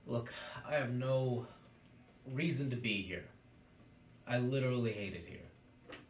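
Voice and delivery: lightly voiced indignant protest; defiant accused figure. Plays a defiant character.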